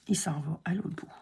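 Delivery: soft whisper to herself. Real, not acted. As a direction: murmur it as you place the piece. Concentrating while placing the piece.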